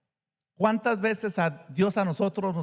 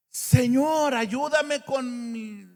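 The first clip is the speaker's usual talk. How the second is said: pleading prayer; 4 semitones higher, much slower than usual. Retold or imitated. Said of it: "Y ahí sí le decimos".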